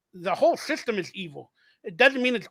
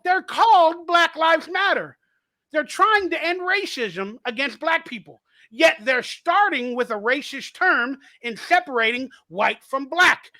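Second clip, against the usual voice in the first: insistent retort; 4 semitones higher, 3 dB louder than usual. Retold or imitated. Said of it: "I go".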